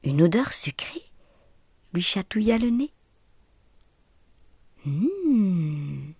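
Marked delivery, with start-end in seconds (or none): 4.8-6.1 murmured hum. A narrator's reading. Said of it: "murmura-t-il".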